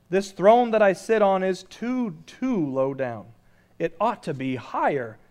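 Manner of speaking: frowning king turtle. Acted. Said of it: "he said with a frown".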